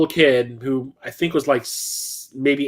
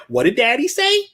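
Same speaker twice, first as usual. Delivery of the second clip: high, mocking singsong jab; mocking taunt; 9 semitones higher than usual. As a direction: throw his dad's words back at the kid. Taunting the bratty kid.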